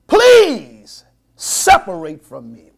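drawn-out, pleading please; slow pleading. Acted. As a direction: stretch each word, begging. Abraham's plea, drawn out.

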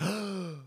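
mock barmaid gasp. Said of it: "the woman behind the bar was like".

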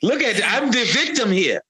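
a hint of Palpatine crying foul after Mace attacks; bad Palpatine impression. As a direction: play the wronged victim in a thin whine. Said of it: "You have the worst Emperor Palpatine accent ever".

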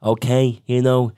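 a light Irish accent, mocking Conor; mild imitation of Conor's Irish lilt; half-hearted Irish brogue. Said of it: "That's a really bad accent".

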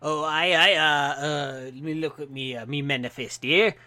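lightly voiced dwarf drifting into Cajun; dwarf clerk with a wandering, half-Cajun accent; slipping dwarf accent. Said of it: "I'm Cajun now".

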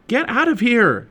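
high, loud, drawn-out order; angry yell. A narrator's reading. Jack to the octopus gripping the sub, yelling. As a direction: yell to scare it off. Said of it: "Jack yelled at it".

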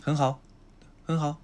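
很好 lifted upward at the end; rising end on 很好. Shown as a demonstration. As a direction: say 很好 with the last syllable climbing high. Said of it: "語尾をちょっと上げていくんですよ".

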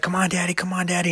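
mock a child nagging her dad; imitating whining daughter. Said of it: "She's like".

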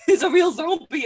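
host relishing the twist; laughing repeat. Real, not acted. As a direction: say it again cracking up. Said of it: "repeat, laughing, louder".

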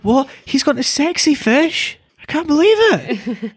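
very high, slow Scottish disbelief; exaggerated Scottish accent. Mimicking the friend hearing the news, high mock-Scottish shock. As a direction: squeal it slowly in mock Scottish. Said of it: "Hang on, let me try".

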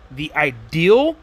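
"ideal" drawn out slowly with the final L sounded; careful "ideal", clearly not "idea". Shown as a demonstration. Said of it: "not the idea".

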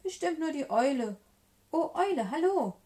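high, loud little mouse; high-pitched storybook greeting; mouse calling out. A narrator's reading. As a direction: hail the owl brightly from afar. Mouse calls to the owl.

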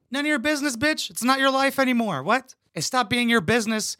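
high-pitched indignant rant; mock telling off. Commentator tells the nosy TV mother off, high and indignant. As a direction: snap back at her, pitch up high. Yelling at the TV mom.

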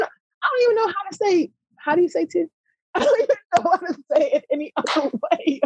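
high-pitched, laughing through the words; helpless, squeaky-high real laughter. Real, not acted. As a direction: crack up while protesting. Amused by own accent.

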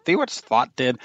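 put-on a light touch of a Scottish accent on "See what thought did?"; lightly voiced Scottish mother, half-hearted; mild Scottish accent imitation. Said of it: "with a thick Scottish accent".

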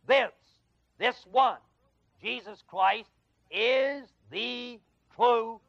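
"true" drawn out very slowly; slow emphatic reading. Shown as a demonstration. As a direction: stretch "true" out long for weight. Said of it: "let's read that last statement".

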